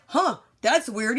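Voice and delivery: slow, amused, laughing through the line. Real, not acted. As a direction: quote him while laughing. Man with severed arm, unbothered.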